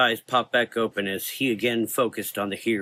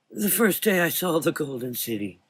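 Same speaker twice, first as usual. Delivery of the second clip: put-on higher, dreamy old voice; wistful; 6 semitones higher than usual. A narrator's reading. Old doctor recalls the Golden City wistfully. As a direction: smile through the memory. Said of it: "with a wistful smile".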